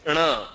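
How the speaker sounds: "rna" as one N with tongue curled back; Marathi retroflex N. Shown as a demonstration. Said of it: "there is a sound which is rna".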